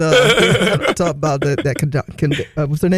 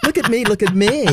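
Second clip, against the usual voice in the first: snooty voice; 5 semitones higher than usual. Pretend. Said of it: "Put on my snooty voice".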